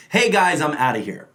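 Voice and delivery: the example line said with a fixed lilt; rote line reading. Shown as a demonstration. Coach demonstrating a rote line, sing-song cadence. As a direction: deliver the line as a memorized sound. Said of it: "say the line is".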